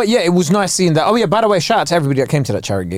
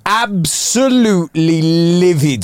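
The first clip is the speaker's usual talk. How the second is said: mock outrage; slower than usual. Real, not acted. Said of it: "I was livid".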